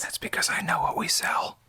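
stage whisper. Real, not acted. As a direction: hiss it as a boast. Shout whisper boast.

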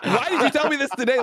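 exasperated disbelief. Retold or imitated. Exasperated retort to Riot.

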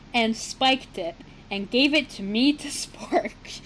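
half-whispered with laughter; whispered laughing. Shown as a demonstration. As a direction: giggle the words under breath. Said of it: "put that whole sentence together".

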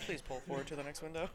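breathy drive-thru speaker. Retold or imitated. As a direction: murmur it like a drive-thru worker. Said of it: "breathy with it".

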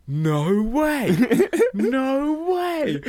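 high, laughing cries of disbelief. Retold or imitated. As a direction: friends shrieking with delight behind the door. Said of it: "them going".

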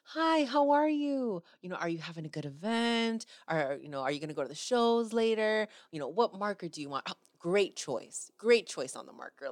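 a hint of cheery welcome; imitating a friendly fan greeter. Adam greeting fans at his table, lightly cheery. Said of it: "he's like".

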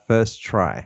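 whispered choice; whispered answer. Real, not acted. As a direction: whisper first try slowly. Dramatic answer reveal.

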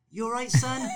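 put-on high, loud, concerned old lady calling out. Old lady calls out to struggling swimmer, high and concerned. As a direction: play a kindly old swimmer checking on a struggling man. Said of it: "and they're going".

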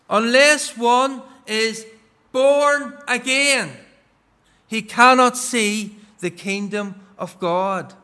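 measured, solemn Bible reading; scripture reading. Acted. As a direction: read the verse like from the pulpit. Reads scripture aloud.

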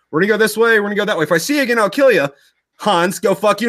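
high-pitched parting threats; mock threats. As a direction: act out cheerful enemy threats. Soldiers part with mock threats.

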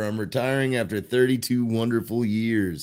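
a hint of kindly retiring conductor; lightly voiced train conductor. Conductor announcing his last day, lightly voiced role. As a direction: lightly play a veteran conductor saying farewell.

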